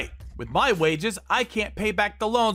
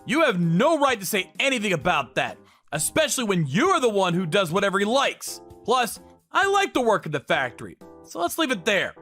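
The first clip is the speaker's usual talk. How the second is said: mildly scornful; 3 semitones higher than usual. Acted. Brother and sibling bicker over a factory job, mildly scornful. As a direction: argue with a touch of scorn.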